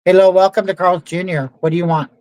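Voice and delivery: fast, curt "What do you want?"; mildly imitated rude worker; rude drive-thru worker. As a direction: rush it like an impatient cashier. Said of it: "the speaker goes".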